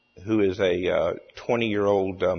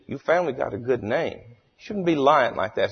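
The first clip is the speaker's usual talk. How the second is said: mild scolding in a higher mock-Cajun voice; Cajun storyteller; 5 semitones higher than usual. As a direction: chide lightly, as a Cajun joke character. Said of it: "tells the story in his hilarious Cajun accent".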